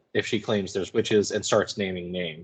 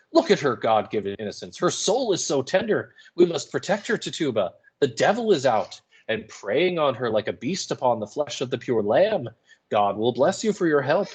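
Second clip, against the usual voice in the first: pleading minister; 3 semitones higher than usual. Acted. Hale pleading with Tituba.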